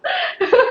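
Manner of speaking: laughing. Real, not acted. Ri de si mesma.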